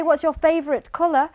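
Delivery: quick, natural run-together question; normal-speed question. Shown as a demonstration. Examiner asking a seven-year-old at natural speed. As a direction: ask it as a native speaker would. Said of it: "But if I say".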